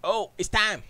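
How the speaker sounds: high, loud exclamation; excited. Real, not acted. Show start arrives.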